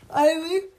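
high, loud questioning call; loud outcry. A narrator's reading. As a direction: call the name out in high alarm. Child's outburst voiced in story.

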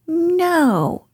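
high squeaky put-on voice; disguised Rabbit voice. Rabbit pretends not to be home, high disguised voice. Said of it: "in a different sort of voice this time".

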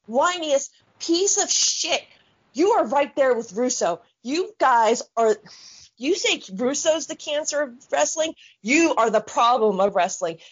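real angry rant, heavy on the swearing; pissed off. Real, not acted. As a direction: tear into them, indignant and emphatic. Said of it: "that just really pissed me off".

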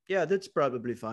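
botched attempt at a young Hawaiian guy's accent; casual brush-off in an unplaceable, would-be Hawaiian accent; muddled Hawaiian accent. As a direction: try a Hawaiian accent and miss. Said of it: "I don't know what that accent was".

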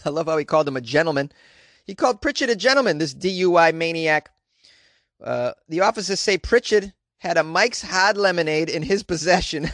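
put-on comic Boston-accented news read; broad Boston accent, dropping the R's. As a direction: read the article like a lively Bostonian. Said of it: "do this article with a Boston accent".

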